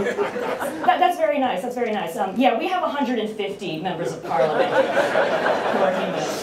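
lightly faked British accent, starting high; a hammy try at a British accent; bad British accent. The speaker telling visitors about members of parliament, bad British accent. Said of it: "I'm doing a bad British accent".

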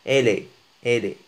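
"إيلي" starting on an open eh, like elle est; open-mouthed vowel. Shown as a demonstration. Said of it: "مع الفم مفتوح، مفتوح لغاية الأذنين".

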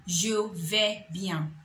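slow, falling Je vais bien; slow model answer. Shown as a demonstration. Teacher modelling the answer Je vais bien slowly. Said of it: "Comment vas-tu?".

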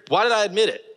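high-pitched exasperated wail at himself; self-reproach. Real, not acted. Man regretting his needless apology to her, exasperated self-reproach. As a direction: cry it out, kicking yourself for confessing.

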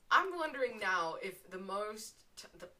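slipping briefly into British; accidental British accent. Real, not acted. Streamer starting a thought, unintended British accent. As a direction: drift into a light British accent, then stumble. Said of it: "Ignore me turning British for a second".

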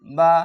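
বা said ba with a clear open a; teacher spelling বা; zabar syllable demo. Shown as a demonstration. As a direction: sound out বা slowly as ba. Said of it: "জাবার".

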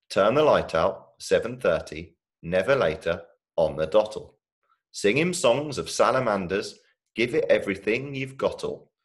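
put-on playful, rhythmic children's verse reading; poem recital. A narrator's reading. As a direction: read a comic bedtime poem, relishing each silly rhyme. Reads a comic poem aloud.

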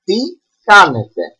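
"Τι κάνετε" said as "ti KAnete", plural ending -ete; teacher models "Τι κάνετε" clearly; Τι κάνετε, καθαρά; Greek phrase spoken. Shown as a demonstration. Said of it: "In plural, it is".

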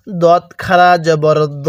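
"দত খারা জবর দ" said slowly, each syllable spaced; slow teacher's model reading; slow recitation for repeating. Shown as a demonstration. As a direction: spell it out slowly so students can follow. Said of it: "আমার সাথে পড়ুন".

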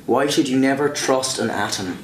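light, measured Irish accent. Shown as a demonstration. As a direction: joke setup in an Irish brogue. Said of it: "tell you a joke in my Irish accent".

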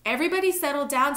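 loud, high call for order; commanding cry. A narrator's reading. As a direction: shout over a panicking group. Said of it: "Senor Castillo cried".

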